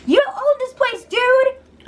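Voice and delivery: imitating Alex yelling at Mark over her bed; imitated yelling. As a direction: rise into outrage. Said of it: "Alex is yelling".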